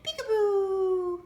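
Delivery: playful drawn-out peekaboo; peekaboo demo. Shown as a demonstration. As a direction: draw out the Peekaboo to coax the pet. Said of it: "Do you wanna give a peekaboo?".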